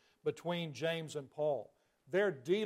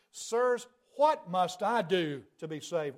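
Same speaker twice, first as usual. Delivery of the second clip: respectful plea; slower than usual. Acted. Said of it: "addresses them in terms of respect".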